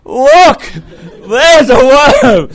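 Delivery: half-laughing mock shout; excited yell. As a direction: yell it like a kid who spotted a worm. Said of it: "He goes".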